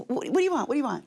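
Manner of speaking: mildly exasperated re-enactment; flustered questioning. Retold or imitated. Retells repeating her question to husband.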